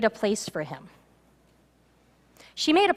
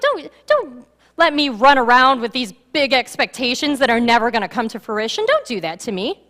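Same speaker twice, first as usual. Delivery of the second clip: agitated; 5 dB louder than usual. Acted. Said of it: "She's kind of agitated with Elijah".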